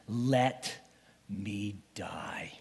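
soft, drawn-out plea trailing to a whisper. Acted. Broken man repeating his plea to God, whispering. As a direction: breathe out the last words. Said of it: "I said these words".

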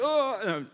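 high acted groan of pain; mock wail as the pain hits; pain kicking in. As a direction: groan out a retold pang. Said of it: "the pain would kick in".

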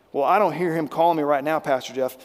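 lightly voiced skeptic in the pews, quick and a bit dismissive; a hint of a churchgoer talking back to the pastor; doubting listener. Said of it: "No, you may or may not".

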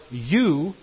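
YOU punched out emphatically; emphatic YOU. Acted. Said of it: "with an emphatic you".

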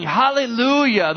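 Hallelujah cried out high and loud, stretched slow; a big preacher's shout of Hallelujah, drawn out. Retold or imitated. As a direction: shout Hallelujah like a roaring crowd.

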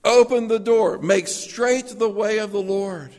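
high, loud crying-out call; loud proclamation. Pretend. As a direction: cry it out across the desert like a herald. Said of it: "I'm just the loudspeaker calling in the desert".

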